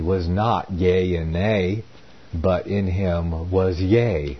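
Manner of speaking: formal, slightly lifted reading voice; scripture reading. A narrator's reading. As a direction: read the verse aloud deliberately. Reads scripture aloud amid own commentary.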